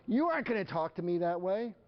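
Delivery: high-pitched parental scolding; indignant parent. Acted. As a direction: play a parent laying down the law. Parent scolds defiant child.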